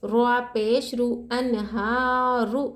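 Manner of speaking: slow, रु said thick and full; teacher models heavy ra. Shown as a demonstration. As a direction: read अनहारु with a heavy rolled रु. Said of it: "रुआ को मोटा पढ़ेंगे".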